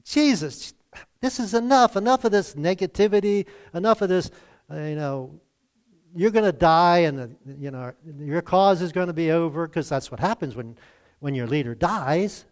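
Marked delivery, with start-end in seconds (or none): 0.0-9.7 voicing fed-up disciples begging Jesus to stop; exasperated disciples. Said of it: "I can imagine the disciples".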